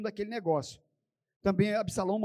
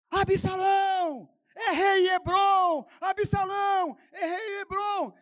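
high, loud, drawn-out chant; slow ringing acclamation of a king; crowd shouting; 10 semitones higher, 7 dB louder, slower than usual. Acted. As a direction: roar it like a rallying mob. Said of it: "Aí o pessoal gritava".

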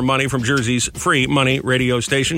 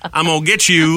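lightly imitated creepy parrot; 3 semitones higher than usual. Host echoing the creepy parrot clip, light parrot mimicry. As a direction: mimic the talking parrot a little. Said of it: "The parrot saying".

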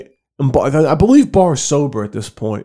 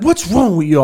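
lightly voiced mother, pitched up; higher, put-on exasperated question; mock scolding mom; 5 semitones higher than usual. Mom to her son rolling behind the bed, mock scolding.

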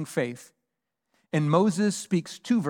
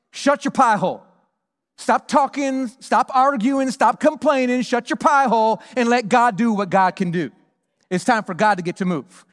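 higher, louder, hammering each stop; emphatic command; 5 semitones higher, 4 dB louder than usual. Shown as a demonstration. Pastor telling the congregation to stop complaining, emphatic. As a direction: bark it at the complainers like a coach. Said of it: "much more emphatic".

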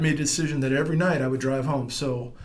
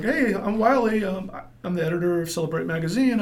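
lightly voiced editor; 6 semitones higher, 3 dB louder than usual. Voicing the editor.

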